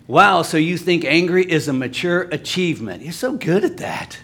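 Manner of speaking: mock-impressed, rising into false praise; sarcastic. Preacher mocks pride in being angry, sarcastic. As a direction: gush with sarcastic admiration. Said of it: "It might sound sarcastic".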